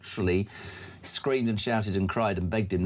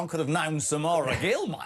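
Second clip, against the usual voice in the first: put-on Australian accent; 4 semitones higher than usual. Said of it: "I could have been an Aussie".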